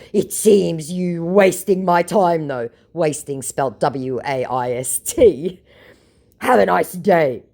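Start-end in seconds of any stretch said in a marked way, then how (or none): 0.1-2.7 mock scammer voice. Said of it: "To which my scammer said". 6.4-7.4 triggered mock scammer. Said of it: "completely triggered".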